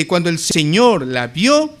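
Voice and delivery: weight on "Señor", said with authority; stress on Señor. Shown as a demonstration. Preacher showing Luke's emphasis on Jesus' authority, stressing "Señor". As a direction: lean firmly on "Señor". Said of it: "eso quiere enfatizar la autoridad".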